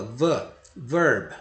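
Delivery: "verb" with a clear v and an open vowel like "a"; "verb": v clara, vogal aberta como a; pronunciation model. Shown as a demonstration. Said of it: "fale v, verb".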